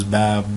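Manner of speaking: "bab" stopped on a vowelless b; sukoon ending. Shown as a demonstration. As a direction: cut "bab" off at the final b. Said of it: "There's no".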